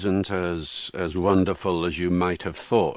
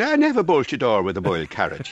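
light Irish accent on the proverb; 4 semitones higher than usual. Shown as a demonstration. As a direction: say it with an Irish lilt. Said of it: "you have to say it in an Irish accent".

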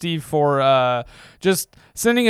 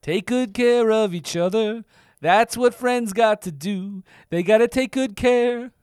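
slow, higher put-on voice; 4 semitones higher, slower than usual. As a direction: draw it out slowly in a silly voice. Singsong catchphrase voice.

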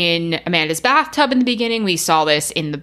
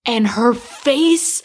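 high-pitched, laughing through the words; laughing while talking; 11 semitones higher, slower than usual. Real, not acted. Cracking up describing the scary devil face, laughing. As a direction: let the giggles push the voice up high.

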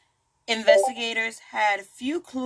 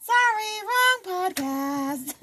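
joking aside; 10 semitones higher, slower than usual. Real, not acted. Joking after Italian slip.

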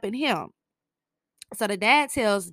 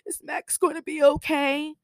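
higher, mock-naive voice; mocking a dumb question; 7 semitones higher than usual. Recapping Harper's question, mock-naive. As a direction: play the question as clueless. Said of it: "the most dumbest question in the world".

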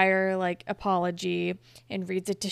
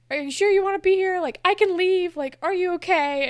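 higher, louder, hurried worried questions; retold anxious checking; 9 semitones higher, 5 dB louder than usual. Apologetic friend checking on her guest, retold as anxious, high-pitched fussing. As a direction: rush out an imitation of someone fretting. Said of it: "And she's very, like".

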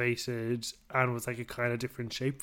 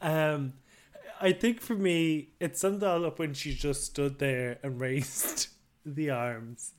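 holding back laughter; slower than usual. Real, not acted. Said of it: "I'm trying not to laugh".

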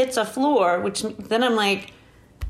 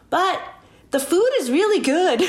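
higher, lilting sales pitch for consolation; mock consoling nurse; 8 semitones higher than usual. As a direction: lightly imitate a nurse offering a silver lining. Nurse's consoling remark, retold.

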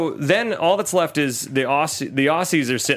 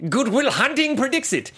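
mock genius voice; 9 semitones higher than usual. Mocking the prodigy scientist.

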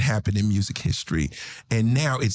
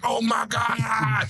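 excited shout; 9 semitones higher, slower than usual. Retold or imitated. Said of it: "All you heard was like".

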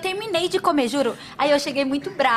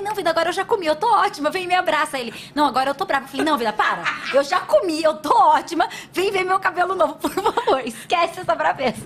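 coaxing plea; 2 semitones higher than usual. Retold or imitated. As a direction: coax him sweetly to come and hug. Retold pleading with husband.

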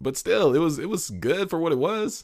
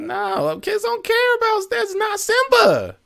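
mocking disgust; 6 dB louder than usual. Real, not acted. Friend mocks the remake's baby Simba, high and loud. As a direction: squeal in disbelief at the ugly cub. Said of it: "mocking the realistic Simba".

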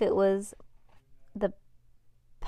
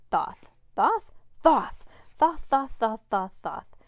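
laughing lisp; 4 semitones higher, 6 dB louder than usual. Acted. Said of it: "imitated him, laughing".

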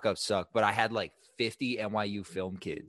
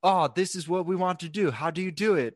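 high, louder eager students; eager film kids; 10 semitones higher, 8 dB louder than usual. Retold or imitated. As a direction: gush like starstruck film nerds. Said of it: "they were all like".

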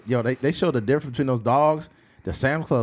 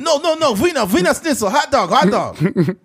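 panicked mock German; 12 semitones higher, 5 dB louder than usual. German soldier insisting on hot dogs, high mock German accent. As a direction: squeal it in panic, cartoon German.

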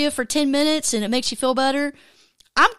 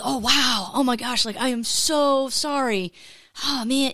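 super sympathetic. Retold or imitated. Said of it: "just really just feeling it for him".

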